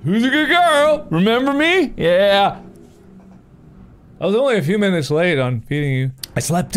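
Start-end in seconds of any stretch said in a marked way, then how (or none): 0.0-2.6 talking to a dog. Real, not acted. Greeting the dog Chica.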